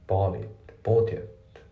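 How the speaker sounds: "ボートイット" linked, then repeated for contrast; two contrasting demo takes of "ボートイット"; dropped T contrast. Shown as a demonstration. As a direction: show "ボートイット" as "boughtit", then the take to avoid. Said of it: "ほぼ発音されてない".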